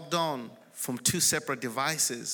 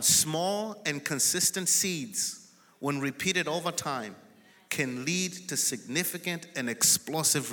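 slow dictation; slower than usual. Real, not acted. Dictating a point to write down.

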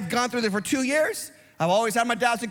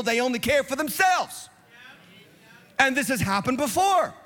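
rising, driving sermon cadence that builds to shouts; fiery preaching. Acted. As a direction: preach it hard to the flock, swelling on key lines. Preaching to congregation.

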